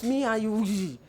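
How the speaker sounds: a touch of acted aggression; confrontational. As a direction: act out coming at someone for a fight. Acted confrontational contrast to gentle tone.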